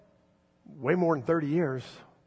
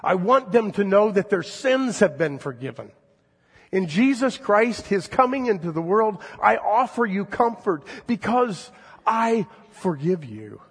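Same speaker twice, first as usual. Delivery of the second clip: higher and louder, God proclaiming forgiveness; 6 semitones higher, 5 dB louder than usual. Acted. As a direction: announce it like God to his people. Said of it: "says God".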